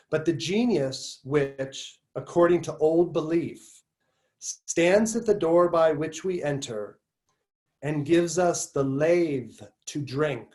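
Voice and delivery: slow, measured recitation with pauses between phrases; essay reading. Acted. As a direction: read the passage out deliberately, stretching key words. Resumes reading the passage.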